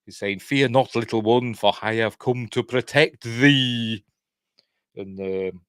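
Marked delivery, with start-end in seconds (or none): 0.4-4.0 slightly raised, slow mock-archaic proclamation; lightly put-on olde-worlde protector, stretching the last words; oldie-worldy speech. Recapping her weird promise to protect the child, lightly mock-archaic. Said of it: "talking in weird, oldie worldy terms".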